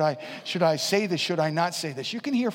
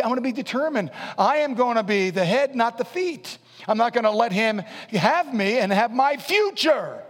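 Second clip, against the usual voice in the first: determined declaration; 4 semitones higher than usual. Shown as a demonstration. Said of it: "just get up and say".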